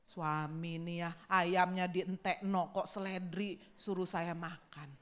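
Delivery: annoyed grumble. Retold or imitated. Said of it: "dia tuh sambil sebel".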